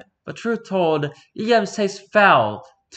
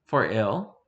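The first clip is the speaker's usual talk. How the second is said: lower, softer questioning echo of "For ill?"; 4 semitones lower, 4 dB quieter than usual. Acted. Lord quietly questioning the mage's "For ill?". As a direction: ask "For ill?" back, low and doubtful. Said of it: "I dare not say for good".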